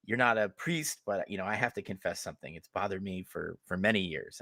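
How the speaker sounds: soft, hushed dying confession; lightly voiced old woman confessing; quiet, quick deathbed whisper-like voice; frail grandmother. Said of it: "she looks at me and goes".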